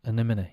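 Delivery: "anemone" starting on a weak "uh"; pronunciation demo. Shown as a demonstration. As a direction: model "anemone" as uh-NEM-uh-nee. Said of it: "the A is actually pronounced like".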